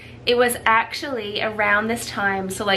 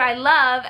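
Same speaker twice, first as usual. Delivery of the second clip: imitating "I love" cut off in suspense; husband's paused confession; 2 semitones higher, 4 dB louder than usual. Wife imitating husband's confession, "I love" left hanging. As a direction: say "I love", then leave it hanging. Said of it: "and there was a pause".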